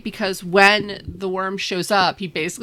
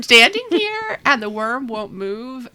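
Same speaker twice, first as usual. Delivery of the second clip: mock alarmed guide; 6 semitones higher, 3 dB louder than usual.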